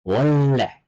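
"Wolle" with a drawn-out double L; correct assimilated pronunciation. Shown as a demonstration. Korean teacher repeating the right form, assimilated pronunciation. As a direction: lean on the ll in "Wolle". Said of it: "it's wolle".

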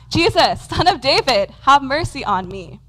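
urgent cry for mercy. Acted. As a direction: call out to be heard down the road. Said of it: "he's crying out".

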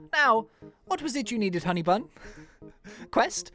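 very high, flustered Irish lady; ladylike Irish voice. Acted. Spirit Bear remembering the quest reward, ladylike Irish voice. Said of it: "in our ladylike, uh, Irish voice".

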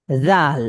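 জাল with a long drawn a. Shown as a demonstration. Teacher models the long vowel. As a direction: stretch জাল by one alif. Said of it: "এক আলিফ টান দিয়ে বলতে হবে জাল".

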